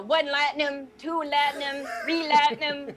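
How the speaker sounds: deliberate timing count. Acted. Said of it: "like, a couple count".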